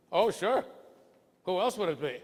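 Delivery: high, loud, incredulous retort; incredulous interviewer. Retold or imitated. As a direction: play the interviewer's surprise at the question. Interviewer retorting in a retold dialogue.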